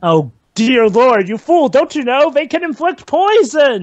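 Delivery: mildly hammed-up dismay, pitch climbing; mock horror. Film fan scolds the raptor breeders, in mock horror.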